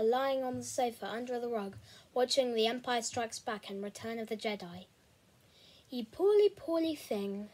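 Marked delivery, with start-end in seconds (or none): 5.9-7.5 a lightly voiced fussing older sister; sighing sister. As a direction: coo it pityingly then sigh. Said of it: "sighed Becky".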